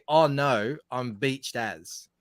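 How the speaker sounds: Australian accent. Shown as a demonstration. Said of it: "an Australian would say".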